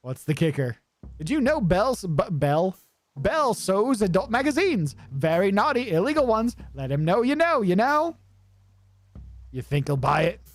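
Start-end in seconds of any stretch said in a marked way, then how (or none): 1.2-8.2 higher, sly rodent whisperer; Sid voice. Acted. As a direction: lean in and gossip like a sneaky kid. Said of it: "I like voicing Sid".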